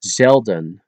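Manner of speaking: Zelden starting with an S sound. Shown as a demonstration. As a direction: say Zelden as Selden. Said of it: "the Z into an S".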